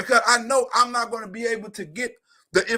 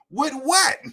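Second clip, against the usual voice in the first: incredulous; 6 semitones higher, 6 dB louder than usual. Real, not acted. Mocking people who say move.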